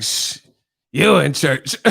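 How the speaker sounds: lightly voiced mockery of the old lady; mocking echo. Martin mimicking the church lady, mild mockery. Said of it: "he would mock the people's voices".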